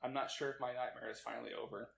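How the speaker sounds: quiet, earnest read-out confession; solemn confession reading. Acted. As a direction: read it like a guilty statement. Reading a mock confession aloud.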